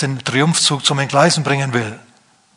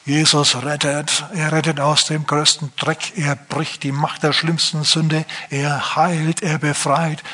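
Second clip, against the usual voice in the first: earnest street preaching. Retold or imitated. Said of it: "so haben die gepredigt".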